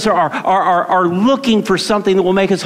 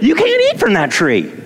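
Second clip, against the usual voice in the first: God's command; 8 semitones higher than usual. Retold or imitated. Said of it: "He said".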